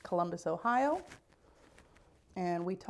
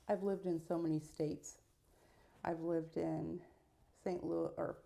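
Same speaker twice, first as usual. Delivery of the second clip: talking with a retainer in; words blurred around a retainer; retainer in mouth. Real, not acted. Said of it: "I can't talk and it sounds like this".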